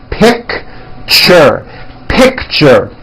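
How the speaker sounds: "picture" as two syllables, pik-cher; slow, careful "picture"; "picture" said deliberately in two beats. Shown as a demonstration. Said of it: "It's two syllables".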